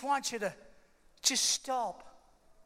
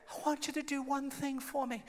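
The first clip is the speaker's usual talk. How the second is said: soft, weak patient voice; quiet acted plea; Adrian; 2 semitones higher, 5 dB quieter than usual. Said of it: "I can't talk very loud".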